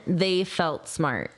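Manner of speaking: slow demo. Shown as a demonstration. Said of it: "Say that a few times".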